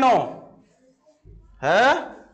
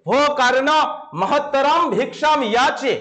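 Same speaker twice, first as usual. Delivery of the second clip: slow, solemn offstage call to Karna; slower than usual. Shown as a demonstration. Teacher reads the offstage voice calling to Karna, slow and solemn. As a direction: call out as a hidden voice from behind the curtain. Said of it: "পর্দার আড়াল থেকে একটা আওয়াজ শোনা গেল।".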